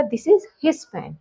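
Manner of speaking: each word said very slowly and apart; slow dictation. Shown as a demonstration. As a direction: spell it out slowly for students. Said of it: "तो कैसे कहा जाएगा?". (बहुत धीरे, शब्द-शब्द अलग करके)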